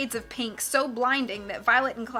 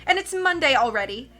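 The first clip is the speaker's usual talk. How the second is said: higher, louder, gloating villain; 5 semitones higher, 5 dB louder than usual. A narrator's reading. Olaf bullying the rowing orphans, gloating loud villain. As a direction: gloat and threaten like a pantomime villain. Olaf threatening the children, cackling.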